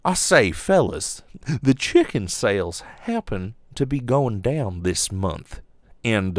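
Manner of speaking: put-on Southern gentleman accent. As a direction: play a lightly voiced Southern gentleman executive. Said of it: "oh, they're probably all Southern".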